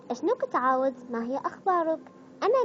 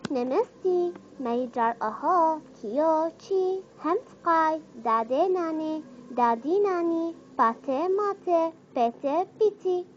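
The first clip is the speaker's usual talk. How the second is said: lightly put-on Indian lilt, words drawn slow; playful imitation of Indian speech; mock Indian accent; 3 semitones higher, slower than usual. Shown as a demonstration. Vlogger imitating Indian words for a dialect challenge, mock Indian accent. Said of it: "هي اللهجة الهندية".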